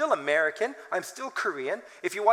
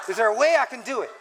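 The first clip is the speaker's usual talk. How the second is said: emphatic; 3 semitones higher, 5 dB louder, faster than usual. Retold or imitated. Pastor repeating the question with more force. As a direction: push the question home. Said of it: "look more humble".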